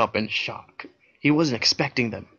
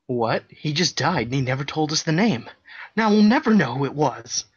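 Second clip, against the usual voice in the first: raging; 4 semitones higher, 4 dB louder than usual. Acted. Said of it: "El raged".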